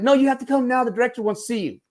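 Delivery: insistent mock-Australian voice; Australian accent. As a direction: press him in a high Aussie accent. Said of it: "trying to do an Australian accent".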